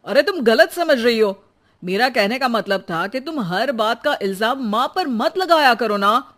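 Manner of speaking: loud pleading argument; 1 arguing loudly. Acted. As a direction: push back hard at his wife. Husband arguing with wife loudly.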